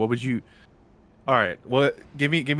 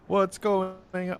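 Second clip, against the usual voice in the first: higher, slowed-down puzzled question; drawn-out startled what's going on; confused; 11 semitones higher, 3 dB louder, slower than usual. Real, not acted. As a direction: sound baffled that the mic cut. Mic cut out confusion.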